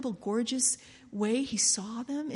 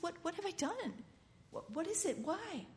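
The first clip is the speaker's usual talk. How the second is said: hushed pleading; 4 semitones higher, 9 dB quieter than usual. Acted. Father asking, hushed.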